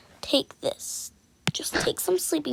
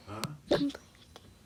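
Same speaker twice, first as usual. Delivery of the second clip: "I'm playing a game" dropped much lower, softer and strange; deep odd voice; 11 semitones lower, 10 dB quieter than usual. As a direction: put on a low, hollow voice. Line repeated in two voices.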